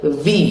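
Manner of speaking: "V" with teeth on the lip. Shown as a demonstration. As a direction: buzz the v in "V". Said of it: "touch your lip with your teeth".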